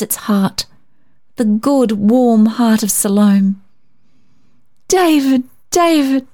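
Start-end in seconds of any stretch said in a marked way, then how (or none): 4.9-5.4 high, eager calling of a name. A narrator's reading. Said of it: "she cried in her need of audience". 5.7-6.3 eager call repeated. A narrator's reading. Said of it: "she cried in her need of audience".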